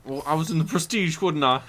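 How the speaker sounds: put-on light Cockney accent; a loose Cockney voice; a light Cockney voice bragging about his films; Michael Caine impression. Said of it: "Michael Caine impressions".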